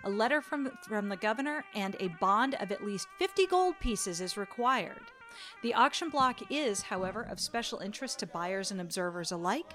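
calm, unhurried storyteller narration; scene narration. Acted. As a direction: paint the market scene for players. Game master sets the scene.

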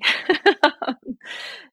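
high, bursting laugh. Real, not acted. Laughing at her own aside.

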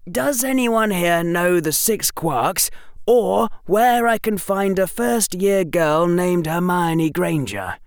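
put-on young boy muffled by scarf. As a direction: talk through a scarf over the mouth. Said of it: "in a voice only slightly muffled by the scarf".

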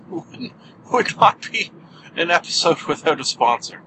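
amused, breaking into a laugh at the start; can't help laughing at it. Real, not acted. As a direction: chuckle into the words. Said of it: "I don't know why I'm laughing".

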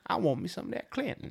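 high breathy swoon; high mock swooning woman.

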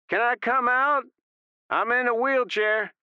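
high, loud pleading call; shouting. A narrator's reading. Stubbs shouting out to the gunmen, pleading. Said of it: "Stubbs shouted".

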